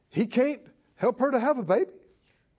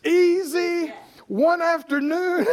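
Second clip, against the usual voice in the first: bold confident declaration; 5 semitones higher, 4 dB louder, slower than usual. Retold or imitated. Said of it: "stand up and go".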